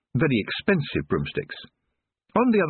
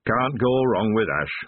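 gloomily; 2 semitones higher, slower than usual. Acted. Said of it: "said the first dwarf gloomily".

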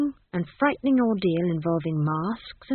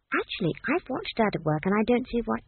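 put-on higher-pitched reasoning little girl; young Esk; 4 semitones higher, 3 dB quieter than usual. Esk argues back to Granny, reasonable. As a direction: object lightly in a child's voice.

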